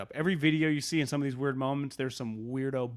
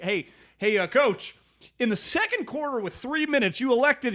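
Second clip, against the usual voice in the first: loud, raised-pitch mock press question; pestering reporter; 10 semitones higher, 5 dB louder than usual. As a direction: imitate a reporter calling out to the coach. Acts reporters peppering coach with questions.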